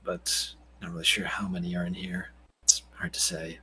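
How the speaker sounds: low, quiet, hesitant answer; in-character reply. Acted. Game master answers as Jonathan.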